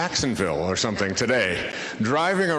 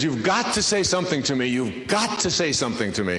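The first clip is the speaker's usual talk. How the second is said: put-on Dutch accent; 4 semitones higher than usual. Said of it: "woman with a Dutch accent".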